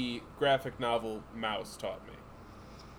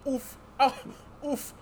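mouse voice; 9 semitones higher than usual. Acted. Mouse struggling to steal burgers.

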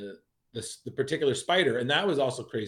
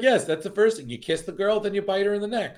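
higher and louder, hammed-up creepy glee; mock eager villain; 9 semitones higher, 4 dB louder than usual. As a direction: play the monster proud of his method. Mocking the villain's logic.

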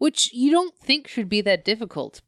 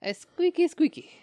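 high squeaky squeak-toy voice; rubbery high squeaky toy; 10 semitones higher than usual. Pretend.

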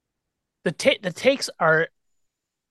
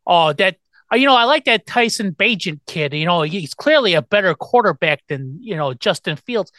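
Chicago caller. Retold or imitated. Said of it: "they'll always say stuff like".

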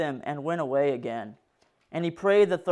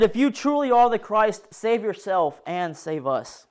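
mocking thief; 4 semitones higher, 3 dB louder than usual. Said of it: "did the same".

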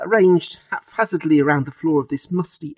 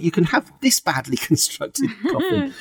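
mock sales pitch; 6 semitones higher than usual. Salesman offering identical coffins.

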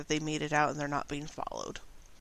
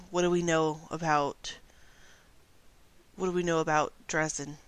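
werewolf voice. Acted. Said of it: "sorry, I have to get my werewolf voice on".

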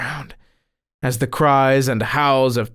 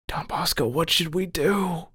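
soft, higher-pitched anxious plea; pleading; 4 semitones higher, 5 dB quieter than usual. A narrator's reading. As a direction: plead in a small, hushed voice. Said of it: "they pleaded".

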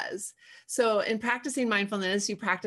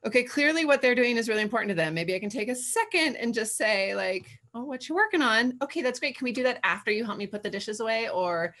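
patient parent. Retold or imitated. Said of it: "instead of being like".

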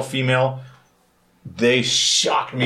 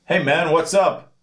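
slow, higher friendly vendor call; imitating a street vendor; 5 semitones higher than usual. Market vendor greeting a passing tourist, slow and friendly. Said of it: "they'd go".

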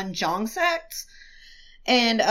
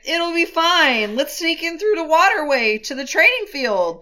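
lightly voiced reassurance; 5 semitones higher than usual. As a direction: talk him into it gently. Wei Wuxian voiced reassuring.

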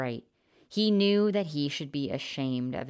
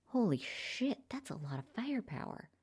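snorted; 8 semitones higher, 8 dB quieter than usual. A narrator's reading. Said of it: "the blonde man snorted".

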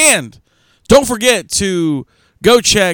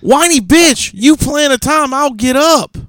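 whiny mock voice; 10 semitones higher than usual. Mocking complaint, high voice.

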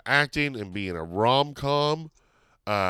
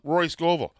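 usual speaking voice

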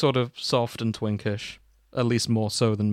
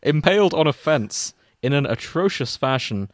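mock-solemn fanfic reading, mostly at usual pitch; story narration; 4 dB louder than usual. Podcast host reading a crack fic to cohosts, mock-solemn narration. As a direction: read the opening like a grave eulogy, tongue in cheek.

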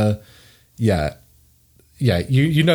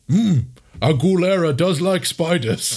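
pondering troll; 5 semitones higher than usual. Acted. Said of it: "being like".

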